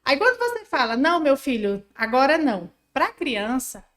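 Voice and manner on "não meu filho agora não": a louder, firmer parent's no. Shown as a demonstration. Mother demonstrating a louder, firmer no to child. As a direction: put your foot down on the no. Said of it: "Eu vou dar um exemplo pra vocês".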